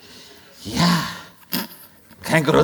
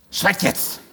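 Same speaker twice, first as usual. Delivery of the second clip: commanding fortune teller. Acted. Wahrsagerin befiehlt Stille.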